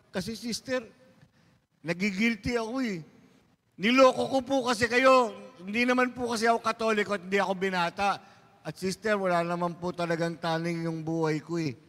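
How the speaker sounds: blubbering confession. Acted. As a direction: confess like a guilty man in tears. Driver confessing while crying. (umiiyak na pag-amin, mataas at paawa)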